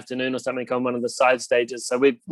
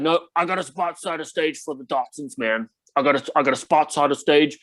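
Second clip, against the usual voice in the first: Lars impression. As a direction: boast about the jet like a casual star. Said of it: "that's my best Lars impersonation".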